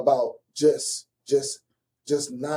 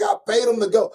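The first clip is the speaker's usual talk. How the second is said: laughing mock quote; 6 semitones higher, 5 dB louder than usual.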